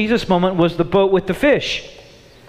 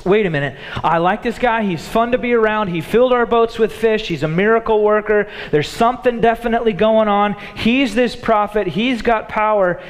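imagined disciple thoughts; 3 semitones higher than usual. Retold or imitated. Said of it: "they gotta be thinking".

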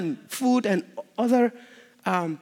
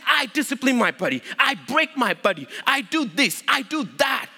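"I" hit at the start of each short phrase; emphatic quote; 2 semitones higher than usual. Acted. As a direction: stack up each "I" clause like Paul making a point. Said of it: "He's trying to emphasize something".

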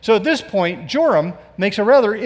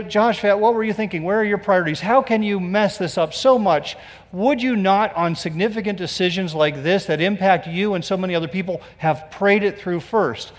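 mild scolding; 2 semitones higher than usual. Retold or imitated. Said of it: "And I go".

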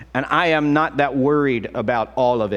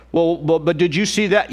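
high, louder fretting; mock worrier; 5 semitones higher, 3 dB louder than usual. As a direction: push the alarm. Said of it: "worried quote".

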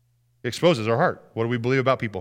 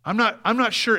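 high, hesitant plea to God; acted-out reluctant prayer; honest complaint prayer; 8 semitones higher than usual. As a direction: voice doubts upward, haltingly. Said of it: "go to the Father with our grumbles".

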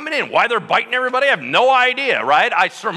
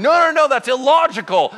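much higher, louder objection; indignant protest; 8 semitones higher, 6 dB louder than usual. Retold or imitated. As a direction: refuse it outright. People argue with Moses.

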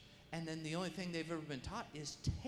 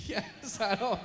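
hurried loud answer; 5 semitones higher, 9 dB louder, slower than usual. Retold or imitated. Frightened men answer.

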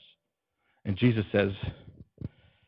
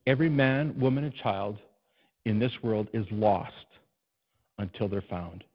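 slower, more deliberate. Shown as a demonstration. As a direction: say it again, slowly, letting it sink in. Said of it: "let me say it again".

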